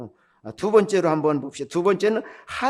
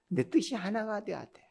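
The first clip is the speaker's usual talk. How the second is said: intense unvoiced hush, pitch raised; confiding unvoiced insistence; unvoiced emphasis; 4 semitones higher, 9 dB quieter than usual. Real, not acted. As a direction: lean in and press the point without voice. Pressing the key point softly.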